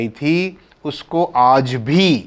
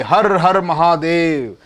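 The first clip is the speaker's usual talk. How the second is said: stretched-out call of praise; demonstrated devotional cry; 3 semitones higher, slower than usual. Shown as a demonstration. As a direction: call out to Shiva, holding the last word. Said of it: "जोर जोर से".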